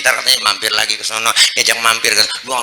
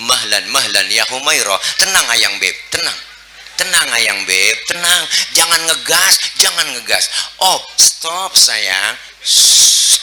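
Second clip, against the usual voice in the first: calming. Retold or imitated. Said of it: "Nabi kan pegang tangan Siti Aisyah".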